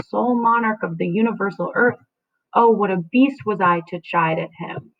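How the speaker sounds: Juliet defending her husband; dramatic reading. Acted. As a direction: read it with wounded pride.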